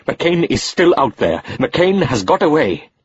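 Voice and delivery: high, slow, bitter rebuke; angry, slow emphasis. Acted. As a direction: lay out the failure slowly. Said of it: "Rahim was in no mood".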